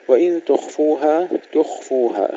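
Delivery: "تخفوها" with خ flowing and full, no bounce; soft-flowing, heavy kha. Shown as a demonstration. Teacher drills the kha for learners, flowing heavy kha. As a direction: let the خ run on in "تخفوها", thickened. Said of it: "في الخاء مع تفخيمها".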